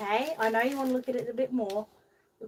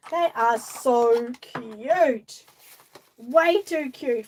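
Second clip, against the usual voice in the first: gushing; 2 semitones higher, 7 dB louder, much slower than usual. Real, not acted. Gushing over cute roller skates.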